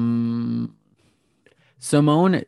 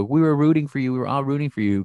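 Tyra Banks; 3 semitones higher, 3 dB louder, faster than usual. Retold or imitated. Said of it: "included the Tyra Banks show".

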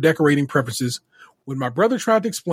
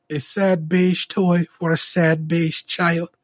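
very slow, put-on German accent; mock German accent; much slower than usual. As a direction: stretch it out in a solemn fake German accent. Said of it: "I know the accent they're doing".

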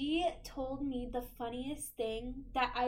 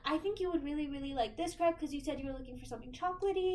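higher, quick, eager counter-staff pitch; crepe shop service voice; 4 semitones higher, faster than usual. Shown as a demonstration. At the crepe place, pitching crepes to a customer. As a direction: sell the crepes brightly and fast. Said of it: "I worked at a crepe place".

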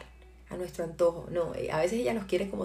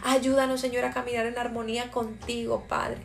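fervent prayer. Acted. Leads a prayer. (oración ferviente, cada vez más intensa)

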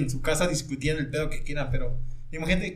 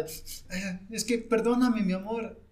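higher, whiny pleading boyfriend, lightly imitated; a hint of a tearful boyfriend; mock crying plea; 5 semitones higher, much slower than usual. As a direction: beg forgiveness like a weepy boyfriend, half-joking. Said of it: "el vato iba llorando".

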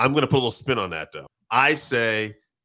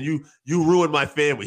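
mildly heated retold accusation, raised pitch; mock angry, pitched up a little; pissed off; 5 semitones higher, 4 dB louder than usual. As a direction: act out a betrayed accusation, half-hearted. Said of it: "pissed, like".

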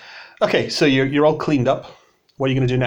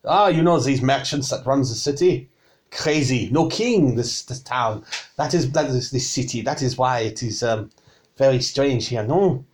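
put-on chatty French-accented tavern keeper; mock-French musing. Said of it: "difficult to do with this accent".

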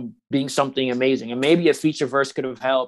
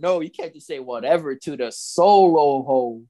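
mock protest; slower than usual. Real, not acted. Interrupting co-host in mock protest.

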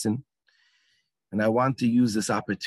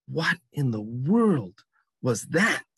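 slow, puzzled, drawn-out asking; bewildered question; slower than usual. Retold or imitated. Startled actor turning around after the bang, slow bewildered question. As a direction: ask it dazed, as if the stage just blew up.

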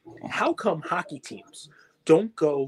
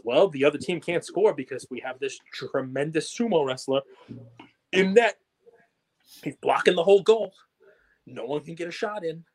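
mock hockey announcer. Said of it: "listening to the announcer".

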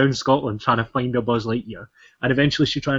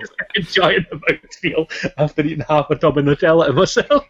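laughing through words; 4 semitones higher than usual. Real, not acted. Laughing at own Nutella binge.

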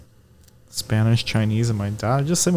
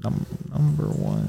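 soft, hesitant try at Chinese accent; attempted Chinese accent; 8 dB quieter than usual. Shown as a demonstration. Reluctant friend trying on request, soft Chinese accent. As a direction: tentatively mimic a Chinese accent, quietly. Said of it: "in a Chinese accent".

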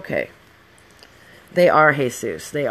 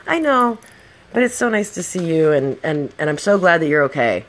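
glad, relieved; 3 semitones higher, 4 dB louder than usual. Retold or imitated. Telling the friend she's glad.

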